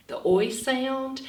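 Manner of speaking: slow, careful "oi" in "the oi sound". Shown as a demonstration. Teacher stressing "oi" for kids to remember. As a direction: linger on "oi" to make it stick. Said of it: "remember that oi".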